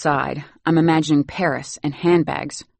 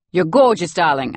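mock fashion gush; 2 semitones higher, 6 dB louder than usual. Mock fashion air-kiss.

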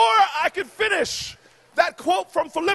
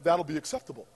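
smug; 12 semitones lower, 8 dB quieter, faster than usual. Retold or imitated. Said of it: "I looked at her and I said".

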